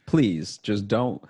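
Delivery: desperate rushed pleading to the bank; mock desperate plea.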